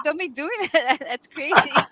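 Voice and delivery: a high, laughing mock scolding. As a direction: scold him while laughing through it. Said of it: "I'm like".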